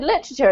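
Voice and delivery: "Literature" squashed short the British way; British "litra-cher"; squashed British pronunciation. Retold or imitated. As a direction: say "Literature" with the middle syllables swallowed. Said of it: "we actually squash this word up".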